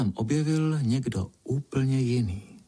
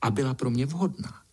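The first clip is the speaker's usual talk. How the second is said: put-on higher, haughty girl voice; boastful little Pinkalinka; 7 semitones higher than usual. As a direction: play the grand princess.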